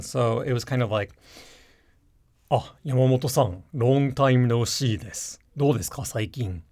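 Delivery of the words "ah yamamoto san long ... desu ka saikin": low salaryman voice. Shown as a demonstration. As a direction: drop into a deep businessman voice. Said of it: "intentionally low voice to kind of mimic the typical Japanese salaryman".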